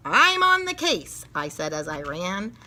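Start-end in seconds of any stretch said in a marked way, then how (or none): 0.1-1.3 excited. Acted. Eager declaration.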